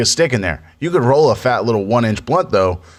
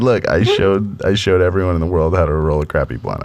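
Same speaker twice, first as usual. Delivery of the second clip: laughing; 4 semitones lower than usual. Retold or imitated. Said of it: "I said".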